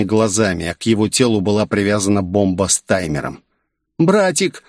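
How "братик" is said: put-on high-pitched little girl calling out; girl's cry. A narrator's reading. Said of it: "закричала Лин".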